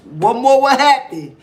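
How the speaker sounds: put-on drunk woman voice.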